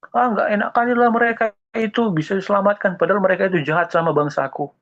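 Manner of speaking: high, whiny complaining Jonah; whining Jonah. Acted. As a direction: whine like a sulking prophet. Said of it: "dia kan merengek-rengek sama Tuhan". (merengek seperti Yunus yang ngambek)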